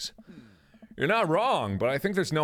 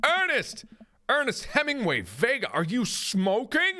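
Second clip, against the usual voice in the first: higher, startled parental yell; father's shout; 10 semitones higher, slower than usual. Acted. Hugo catching his son smoking, shouting across the yard. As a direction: call the boy's full name in alarm.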